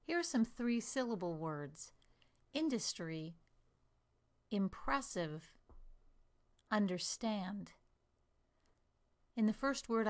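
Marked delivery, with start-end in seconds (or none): 2.5-3.3 "Industry" with IN held and the rest shortened; first-syllable stress. Shown as a demonstration. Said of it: "I stress the first syllable". 4.5-5.5 slow "impressive", stressed on PRESS; second-syllable stress. Shown as a demonstration. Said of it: "the second syllable". 6.7-7.7 slow "understand", stressed on STAND; third-syllable stress. Shown as a demonstration. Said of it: "the third syllable".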